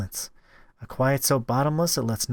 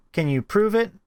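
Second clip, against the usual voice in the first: put-on high girlish challenge; suspicious girl; 9 semitones higher than usual. Anna testing the narrator, high and suspicious. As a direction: question it in a high girl's voice.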